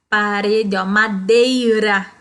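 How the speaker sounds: madeira slowed, tapped R drawn out; soft R demo. Shown as a demonstration. Teacher sounds out madeira's soft R for the class. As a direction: say madeira slowly with a light tapped R. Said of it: "ele tem esse som do R fraco".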